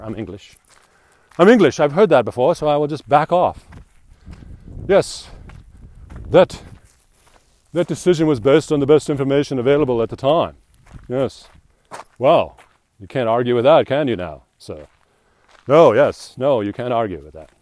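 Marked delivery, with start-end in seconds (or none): 1.4-1.8 I'm English, much higher and louder, hammed up; hammed-up proud Englishman; loud English declaration. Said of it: "It's just kinda like". 1.8-17.5 much higher and louder mock English voice; loud, pompous mock Brit; hammed-up Englishman. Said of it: "It's just kinda like".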